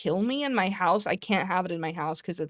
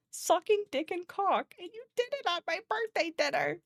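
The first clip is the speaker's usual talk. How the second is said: dramatic voice; 10 semitones higher, 6 dB quieter than usual. Retold or imitated. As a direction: ham it up, overly dramatic. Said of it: "It's so, like, dramatic".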